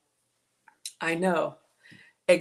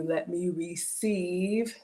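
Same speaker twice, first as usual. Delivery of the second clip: slowing down; much slower than usual. Real, not acted. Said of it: "Let me just slow down and accept the compliments".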